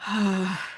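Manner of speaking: a sighing "ah" as the hands pull back; startled sigh. Acted. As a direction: let out a sigh, flinching away. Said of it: "immediately pulls back their hands".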